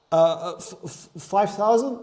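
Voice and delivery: stammering out the number in disbelief; nervous stutter. Retold or imitated. Telling a client his price, stuttering nervously. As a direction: stumble over the f, then ask it nervously. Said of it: "I literally was stuttering".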